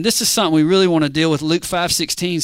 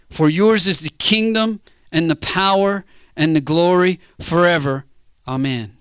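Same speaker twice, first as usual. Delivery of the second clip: slow, earnest personal prayer; prayed like Jesus. Shown as a demonstration. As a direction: speak it slowly, as if really talking to your Father. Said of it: "read it like he prayed it and like you should pray it".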